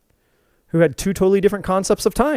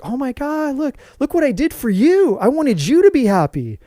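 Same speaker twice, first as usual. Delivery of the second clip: high, pleading for praise; higher, lightly voiced wife seeking affirmation; imitating the wife; 6 semitones higher than usual. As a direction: she wants him to see her effort. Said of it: "waiting for him to be like".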